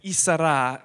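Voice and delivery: Isara as "ee-sa-RAH"; Thai pronunciation. Shown as a demonstration. Missionary teaching church a Thai word, pronounced "ee-sa-RAH". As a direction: say Isara in three syllables, "ee-sa-RAH". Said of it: "the word is Isara".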